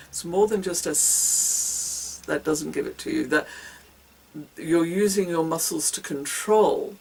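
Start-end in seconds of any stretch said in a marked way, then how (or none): 0.9-2.2 one long, even hiss; plain hiss. Shown as a demonstration. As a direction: let a single hiss run on steadily. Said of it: "if you're just doing a plain s".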